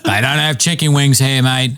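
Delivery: mock Australian complaining about hamburgers; lightly drawn Australian bloke; Australian accent. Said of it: "he was like".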